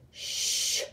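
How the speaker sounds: soft shushing whisper; quiet everyone down; a whispered shh; hushing. Acted. Prairie dogs hushing each other.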